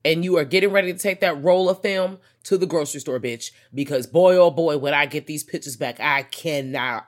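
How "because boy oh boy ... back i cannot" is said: louder, gushing over future snapshots; gleeful anticipation. Pretend. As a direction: bubble over with glee. Gleeful at insurance photos scene.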